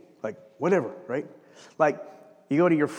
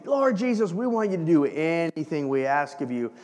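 fawning plea. Retold or imitated. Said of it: "they come up and they say".

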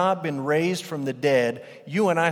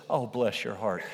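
patronizing pity; 4 semitones lower, 5 dB quieter than usual. Retold or imitated. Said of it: "sort of patronizing phrase".

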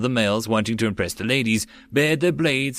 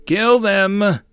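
high, loud commanding shout; shouted order; 9 semitones higher, 6 dB louder than usual. Acted. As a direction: bark the kill order. Emperor orders the attack.

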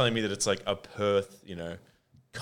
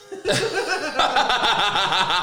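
high burst of real laughter; loud laugh; 7 dB louder than usual. Real, not acted. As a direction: let out a big real laugh. Laughing at the comment.

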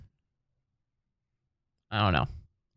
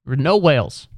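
indignant rant; 5 semitones higher, 4 dB louder than usual. Retold or imitated. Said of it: "Just be like".

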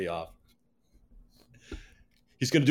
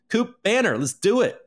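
higher and louder, pumped up; excited rallying cry; 9 semitones higher, 4 dB louder than usual. Real, not acted. Hyping his coin to viewers, pumped cry. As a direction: fire up the audience with a cheer.

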